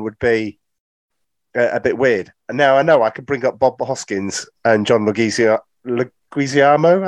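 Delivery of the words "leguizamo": "Leguizamo" sounded out slowly; tentative pronunciation. Real, not acted. Film fan unsure of an actor's surname, "Leguizamo" said slowly and tentatively. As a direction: say "Leguizamo" slowly, feeling out the syllables. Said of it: "I think that's how it's pronounced".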